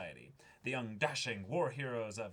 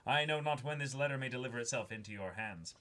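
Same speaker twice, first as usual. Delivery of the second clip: put-on old-timey letter voice. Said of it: "my old-timey writing barrel".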